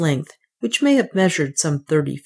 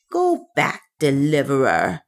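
commanding priestess; 2 semitones lower than usual. A narrator's reading. Woman halts the man springing at her, commanding. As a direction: order him back in a put-on woman's voice. Narrator voices Soa, commanding.

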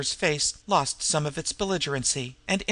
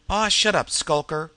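shut-up shout; 5 dB louder than usual. Acted. The Pug shouting down Skulker, dismissive and loud. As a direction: cut him off with a loud brush-off.

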